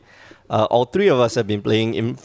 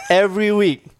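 podcast intro voice; 9 semitones higher than usual. Shown as a demonstration. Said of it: "Let's rewind".

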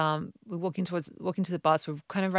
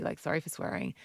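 soft apology; 7 dB quieter than usual. Retold or imitated. Apologising softly to son.

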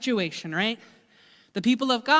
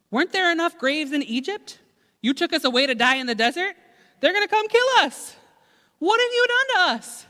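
rising into a high, loud panicky wail; panicked complaint; 7 semitones higher, 4 dB louder, faster than usual. Acted. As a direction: whine at Moses like you're doomed. People panicking at Moses.

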